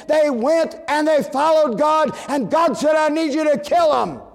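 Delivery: loud, high, ringing sermon delivery; full-force preaching. Acted. Preacher booming to the congregation in full-force preaching. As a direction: preach it out to the pews.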